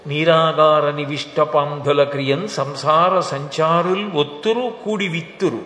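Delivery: slow, emphatic poem recital; verse recitation. Acted. Preacher quoting the travellers verse to listeners, as slow recitation. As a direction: recite the line with drawn-out long syllables.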